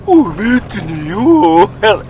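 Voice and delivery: high drawn-out mock greeting; A J's voice for him. A J greeting him, high silly mock voice. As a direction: sing out the name high and silly. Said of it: "he makes a voice at me".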